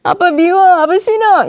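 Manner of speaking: high whiny mock crying; acted childish tantrum at dad; sulking child. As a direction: wail like a rejected little kid. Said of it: "근데 아빠가".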